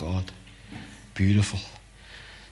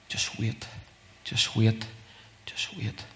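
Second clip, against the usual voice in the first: very soft, near whisper; hushed; 8 dB quieter, slower than usual. Shown as a demonstration. Preacher teaching listeners to wait on God, hushed. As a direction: let it sink into stillness. Models waiting silently before God.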